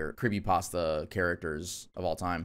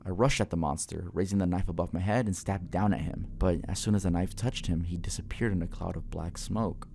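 measured horror-story narrator; story narration. A narrator's reading. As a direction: read it as a first-person scary story. Reads horror story aloud.

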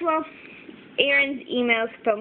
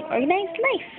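higher, lightly voiced little puppy; cute puppy voice; 7 semitones higher than usual. Voicing the sticker puppy for viewers, higher cute voice. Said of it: "This nice little puppy is saying".

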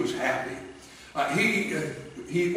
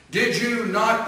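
raised, higher accusing voice; accusing courtiers; 7 semitones higher, 4 dB louder than usual. Acted. Conspirators to the king, raised and accusing. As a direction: courtiers cornering the king, pressing hard.

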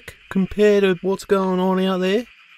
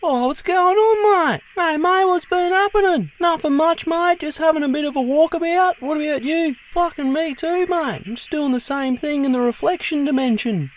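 lightly raised, chirpy mate voice; a hint of a cheery Aussie bloke talking to himself; bantering with reflection; 4 semitones higher than usual. Chats with his own reflection.

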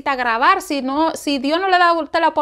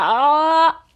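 sustained open "ah" sound; open "ah" demo. Shown as a demonstration. Teacher showing the congregation another kind of voice, demonstrated "ah". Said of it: "la del otro sea".

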